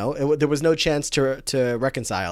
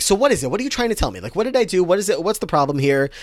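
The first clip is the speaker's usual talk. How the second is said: imitating Blaine; 7 semitones higher, 4 dB louder, faster than usual. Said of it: "he's like".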